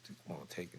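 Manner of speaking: imitating the nurse's hushed sweet-talk; soft coaxing nurse. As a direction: coax him gently like the nurse. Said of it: "this one little sexy nurse".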